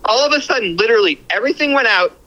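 tinny phone line; over a speakerphone; phone speaker. Real, not acted. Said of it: "I have you on speakerphone".

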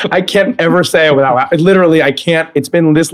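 can't say it without cracking up; laughing. Real, not acted. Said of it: "I can't say it without laughing".

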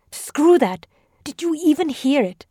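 high, heated retort; defiant outburst. A narrator's reading. Tabriz rejecting the scolding, heated outburst. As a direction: snap back in fear and anger.

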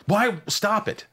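brisk pep talk to oneself; self-talk. Pretend. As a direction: snap yourself out of panic. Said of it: "I actually say this out loud".

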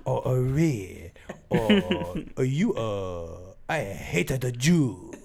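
slow, halting fake Asian accent; badly faked Asian accent, dragged out; mock Asian Hitler. Shown as a demonstration. Answering a request for Asian Hitler, slow mock Asian accent. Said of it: "Do Asian Hitler".

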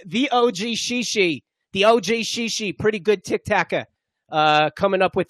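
playful mock Long Island accent; put-on Long Island accent. Host praising a viral clip, put-on Long Island accent. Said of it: "I think it was Long Island".

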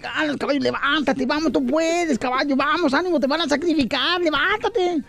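pig cheering horse. Acted. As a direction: egg the horse on like a coach.

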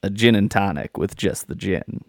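a hint of hardboiled detective; film noir voice. Shown as a demonstration. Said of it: "Did I do that in a good voice?".

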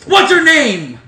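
put-on high, loud old-timey gangster; old Tommy voice. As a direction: shout it like a thirties wise guy. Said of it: "Is that the old Tommy voice?".

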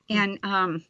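normal talking voice

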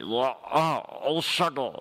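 crooned reggae exclamations; a singer. Retold or imitated. Co-host shows how singer performs, singer impression. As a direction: moan it out like the star on stage. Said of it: "And he's like".

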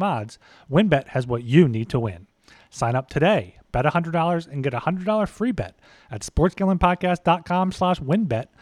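brisk sponsor read. Acted. Host reads the sponsor ad, upbeat announcer voice. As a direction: sell the sponsor like a radio spot.

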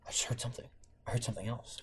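very soft, low whisper. Retold or imitated. Wife whispering to husband about a noise, hushed. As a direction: imitate a hushed, secretive warning. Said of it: "whispering to me".

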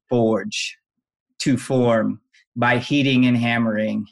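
lightly voiced late-night DJ, pausing between phrases; a hint of radio DJ, each phrase set apart. Shown as a demonstration. Guest gives his own twist on the definition, late-night DJ voice. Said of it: "late night D J voice".

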